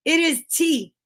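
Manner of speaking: high, slow, drawn-out delight; delighted wonder. Real, not acted. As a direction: savor the reveal, stretching the words. Admires the tea reveal.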